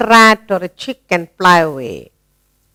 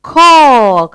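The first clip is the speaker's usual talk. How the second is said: high, loud imitation of a crow's caw; crow call; 5 semitones higher, 4 dB louder than usual. Teacher imitating the crow for children, mock cawing. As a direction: caw like a crow, voiced as a word. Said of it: "it says".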